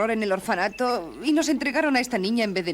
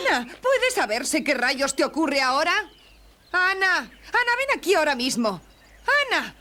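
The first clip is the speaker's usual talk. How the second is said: calling out; 7 semitones higher than usual. Acted. Calling after the girl who ran off.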